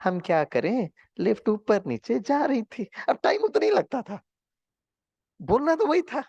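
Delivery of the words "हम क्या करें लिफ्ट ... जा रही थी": lovingly. Shown as a demonstration. Showing the class how to answer the driver lovingly. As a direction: say the same excuse kindly and slowly. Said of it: "अब वही चीज थोड़ा प्यार से बोल सकते थे ना".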